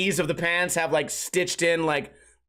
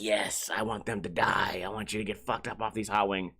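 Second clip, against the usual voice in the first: sinister gloating; 8 semitones lower, 7 dB quieter than usual. Acted. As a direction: gloat in the background like a cartoon villain. Secretly wishing guests suffer.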